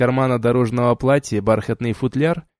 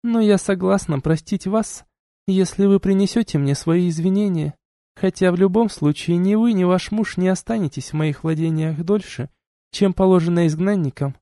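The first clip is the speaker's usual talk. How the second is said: duchess voiced higher, cool and lecturing; stern duchess; 7 semitones higher than usual. A narrator's reading. Duchess reproaching the couple, cool and lecturing. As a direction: scold them like a haughty duchess.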